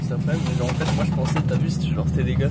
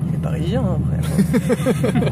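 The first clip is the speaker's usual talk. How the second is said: put-on Parisian accent; 4 semitones higher, 9 dB louder, much slower than usual. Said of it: "C'est ça, l'accent parisien".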